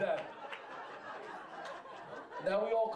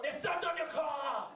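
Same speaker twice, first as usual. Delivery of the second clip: mild mock yell; 5 semitones higher, slower than usual. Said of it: "They're yelling".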